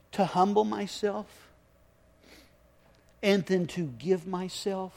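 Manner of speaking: slow, halting plea with long pauses; tearful prayer. Retold or imitated. Man asking God about the morning, tearful and halting. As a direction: ask it haltingly, holding back weeping. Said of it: "But I begin to weep".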